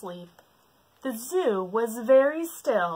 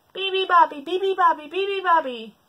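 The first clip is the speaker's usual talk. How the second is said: high, loud roared chant; 11 semitones higher, 7 dB louder than usual. Acted. Animals roar at the bird. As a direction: roar it together. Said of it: "they roared".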